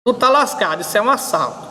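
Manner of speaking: a light carioca accent on a mock robber; a carioca robber, a bit rushed; light Rio accent, mock street threat. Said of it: "O assaltante carioca".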